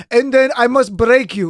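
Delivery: mock Russian tough guy; a quick parody Russian movie villain; hammed-up Russian accent. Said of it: "like a Russian guy going".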